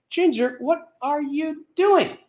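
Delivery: high, slow, drawn-out disbelief; mock amazement. Guest seeing six huge cakes, high slow amazement. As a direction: stretch each word in comic wonder.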